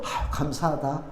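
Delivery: low, very soft sigh of thanks; hushed, acted thankfulness; humble gratitude. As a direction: sigh it quietly to yourself. Acting grateful response to a scolding.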